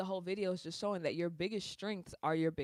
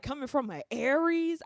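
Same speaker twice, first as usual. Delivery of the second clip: high, loud imitated comeback; mock indignant retort; 8 semitones higher, 6 dB louder than usual. Imitating Virgos firing back at her, mock indignant. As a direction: throw it back in mock offence.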